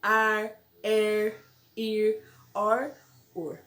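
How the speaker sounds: "ar, er, ir, or" one by one with pulled final R; word-final R drill. Shown as a demonstration. Teacher drilling vowel plus R endings, "ar, er, ir, or" spaced out. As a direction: separate each of "ar, er, ir, or", curling the R. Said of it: "ele tem som de".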